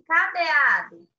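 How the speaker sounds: loud, slow call of cadeado; calling the word. Shown as a demonstration. Teacher modelling the word for a pupil, calling out. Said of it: "Chama aí".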